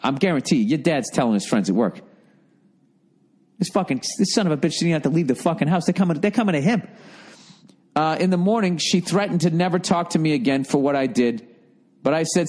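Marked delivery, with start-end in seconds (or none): 3.6-6.9 fast, gleeful imitation of a bragging father; proud dad bragging. Dad boasting to his coworkers about his son, in a fast, gleeful mock voice. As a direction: rattle it off like a proud dad showing off.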